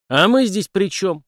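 what's this got to do with us; Henry, puzzled, asks the police chief; surprised. Acted. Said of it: "удивился Генри".

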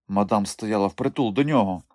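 ordinary talk, nothing marked

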